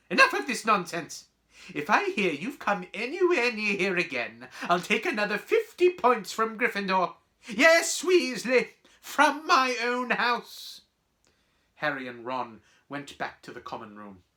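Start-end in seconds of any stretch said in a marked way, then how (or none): 0.1-10.8 loud, high, outraged scolding; lost temper. Acted. Professor docking points from pupils, furious. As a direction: lay down the punishment at full indignation. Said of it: "this time she lost her temper".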